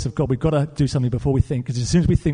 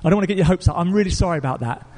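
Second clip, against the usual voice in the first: flustered apology; 3 semitones higher than usual. Retold or imitated. Pastor takes back his promise to the caller, flustered apology. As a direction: imitate an embarrassed, halting retraction.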